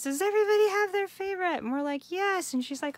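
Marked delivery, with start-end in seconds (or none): 0.0-1.6 high, bright-eyed mock teacher voice, louder; imitating the teacher. Craft teacher rallying her class, imitated high and eager. 2.1-2.5 mock class reply. Class answering teacher.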